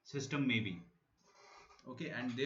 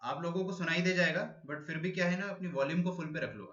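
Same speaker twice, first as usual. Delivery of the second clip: raised voice so the class can hear; louder, projecting to a class online; speaking louder; 4 semitones higher, 3 dB louder than usual. Real, not acted. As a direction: push the volume up for a weak mic. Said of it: "थोड़ा जोर से बोलता हूँ".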